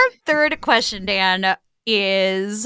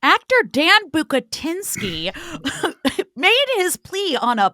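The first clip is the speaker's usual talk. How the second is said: put-on reporter's headline read, pitched up; mock news report; 4 semitones higher than usual. Host reporting the actor's confession, mock newscaster delivery. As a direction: announce it like a crime reporter.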